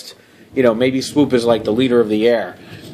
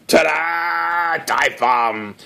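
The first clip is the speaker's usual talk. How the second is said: ta-da; 3 semitones higher, much slower than usual. Acted. Unveiling his model.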